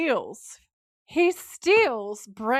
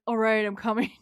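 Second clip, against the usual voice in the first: exasperated mock teenage whine; mad teenage reply; 3 dB louder than usual. Sam answering Gary's mom, irritated teenage retort. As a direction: answer like a fed-up teen. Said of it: "He's so mad".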